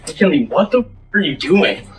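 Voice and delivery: loud, raw shout at her; furious yell. Real, not acted. Yelling at his girlfriend McKinley, furious yell. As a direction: roar her name in disbelief.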